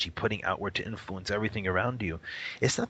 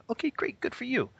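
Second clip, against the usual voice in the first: high mock-cheerful brush-off; sarcastic. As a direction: dismiss them with sarcasm. Sarcastic retort to imagined critics.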